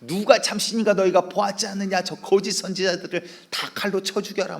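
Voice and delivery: shouting to the people. Acted. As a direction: roar it over the crowd. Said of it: "막 백성들에게 소리치거든요".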